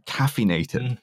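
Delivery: light influencer impression on CAFFEINATED; Andrew Tate. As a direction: lightly mimic an online tough guy. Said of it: "sort of Andrew Tate".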